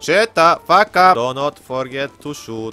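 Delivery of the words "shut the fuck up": mock shout. Snapping at teammate mid-game.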